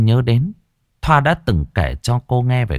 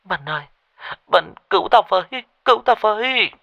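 higher, tearful cry for help; whimpering plea; 10 semitones higher, faster than usual. A narrator's reading. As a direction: beg your friend to save you, on the verge of tears. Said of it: "tiếng mếu máo". (mếu máo cầu cứu)

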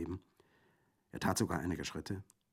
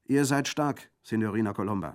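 higher, loud rallying call; loud praise; 4 semitones higher, 9 dB louder than usual. Acted. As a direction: spur her on. Bandit commanding.

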